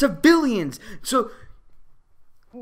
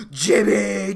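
loud, drawn-out yell of the name; mock crazy driver; 4 dB louder than usual. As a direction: imitate an unhinged bully calling his pal. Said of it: "driving the car that was like".

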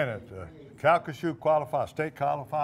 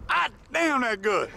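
mock Italian exclamation; 9 semitones higher than usual. Host jokingly translating praise into Italian, mock exclamation. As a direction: start high and fall, as joke Italian. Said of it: "in Italian, you say".

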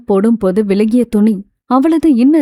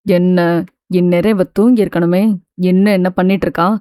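suspicious; 4 semitones lower than usual. Acted. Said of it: "சந்தேகத்துடன்".

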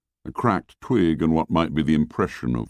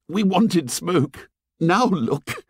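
Piggy voice; 11 semitones higher, slower than usual. A narrator's reading. Piggy complains about the fire.

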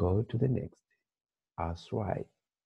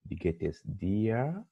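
soft model question; 5 dB quieter than usual. Shown as a demonstration. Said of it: "Dir is informal".

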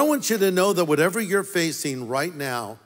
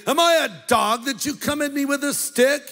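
giant's roar; 7 semitones higher than usual. Acted. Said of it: "He roared at David".

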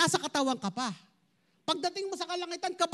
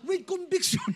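laughing mock quote; 3 semitones higher than usual. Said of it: "Sabi nung iba".

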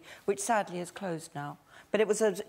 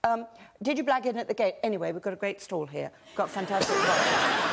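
quick, lightly acted sales patter; fairground caller. Shown as a demonstration. Former stall worker pitching to punters, quick mock patter. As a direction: rattle through the stall pitch. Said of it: "I'd shout at them incomprehensibly".

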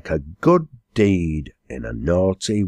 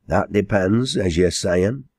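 higher, firmer dialect reply; lightly voiced quarryman, rising on depends; agreeing echo; 3 semitones higher than usual. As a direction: repeat it back as confirmation. Quarryman echoes the old man's answer.

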